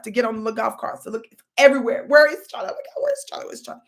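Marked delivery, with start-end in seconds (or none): 2.1-3.8 frantic mother calling. Retold or imitated. Mother searching the park for her son, panicked calling. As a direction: search for the lost child in a panic. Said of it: "just screaming all over the place".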